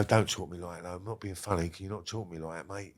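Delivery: low-volume, restrained warning in a retold quote; quiet warning. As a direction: keep the warning right down, almost under the voice. Gangsters' low warning, voiced in retelling.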